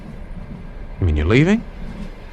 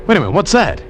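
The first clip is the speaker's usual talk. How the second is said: sudden higher pitch, catching sight of something; alert excitement; 6 semitones higher, faster than usual. Acted. Friend spotting a raft in the channel, alert and excited. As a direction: snap to attention at a distant shape.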